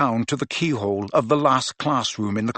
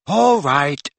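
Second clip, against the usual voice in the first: cheerful; 3 semitones higher, 5 dB louder than usual. Acted. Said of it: "she said cheerfully".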